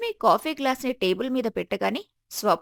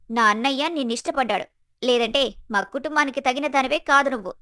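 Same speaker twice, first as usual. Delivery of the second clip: haughty put-down, only mildly heated; understated contempt; harsh, insulting. Acted. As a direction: talk down to a sister-in-law. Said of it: "స్వప్న యొక్క కఠినమైన, అవమానకరమైన మాటలు".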